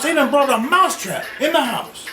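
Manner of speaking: high, loud, urgent squeak of a panicked mouse; frantic mouse. Acted. Mouse warning the chicken about the trap, frantic and high. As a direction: sound the alarm like a frantic little mouse.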